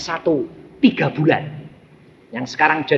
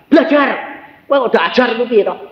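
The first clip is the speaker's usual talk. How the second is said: high, quick burst of scolding; retold telling-off, sharp and raised; scolding father; 9 semitones higher, 4 dB louder, faster than usual. Father ordering his child to study, imitated scolding. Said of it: "marahi dia".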